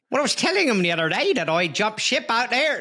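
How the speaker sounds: a hammed-up Irish lilt on an Australian voice; Irish-Australian attempt. Host asks him to attempt his Australian-Irish accent, stage Irish. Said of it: "No, it's too much Irish".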